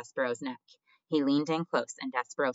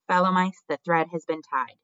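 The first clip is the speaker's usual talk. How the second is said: loud, raised announcement; shouted; 4 semitones higher, 6 dB louder than usual. A narrator's reading. Threadmaster announcing to fellow mice, shouted. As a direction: call out to the whole crowd. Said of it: "turned and shouted".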